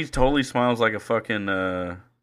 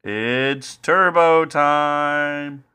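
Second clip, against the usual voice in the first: slow, drawn-out dopey voice; a lighter, stretched take on the goofy character; Turbo Nick voice; 4 semitones higher, much slower than usual. Acted. Host repeats the catchphrase, slow and lightly dopey. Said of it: "whatever accent".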